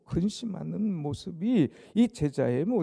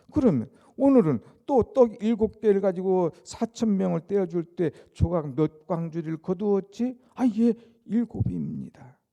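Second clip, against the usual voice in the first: pressing question; 3 semitones higher, 9 dB louder than usual. Acted. Jesus questioning, disciples answer.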